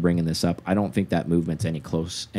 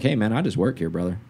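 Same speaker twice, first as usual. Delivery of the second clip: gruff plain mechanic; 4 semitones higher than usual. Retold or imitated. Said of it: "He's like".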